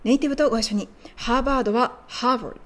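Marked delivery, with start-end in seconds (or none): 1.2-1.7 second "ハーバード" as English "HAR-vrd", ending barely heard; "ハーバード" with the last part almost silent; swallowed ending. Shown as a demonstration. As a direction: stress the "ハー" and swallow "バード". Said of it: "バードはほとんど聞こえないように発音しましょ".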